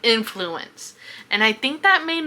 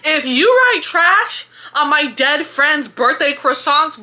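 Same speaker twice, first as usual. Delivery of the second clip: laughing threat; 5 semitones higher, 4 dB louder than usual. Real, not acted. Laughing threat over croissant scene.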